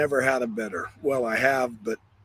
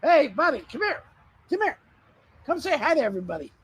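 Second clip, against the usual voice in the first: squeaky praising a dog; 11 semitones higher, faster than usual. Real, not acted. Calling puppy to come over.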